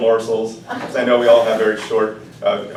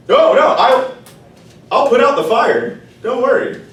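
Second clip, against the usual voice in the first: much higher, louder, hurried; eager water; 10 semitones higher, 6 dB louder than usual. Acted. The water promising the rooster, much higher and eager. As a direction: jump to agree, anxious.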